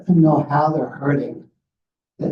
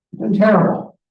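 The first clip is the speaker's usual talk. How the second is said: pitched up, a touch of dry sarcasm; wry mock answer; 7 semitones higher than usual. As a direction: toss it off like an obvious punchline.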